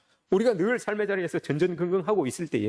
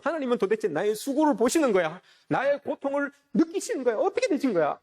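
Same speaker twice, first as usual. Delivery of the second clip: higher-pitched acted protest; imitated exasperated complaint; 6 semitones higher than usual. Jacob questions a silent God about his suffering, imitated exasperated complaint. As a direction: cry out in mock exasperation, pitch climbing.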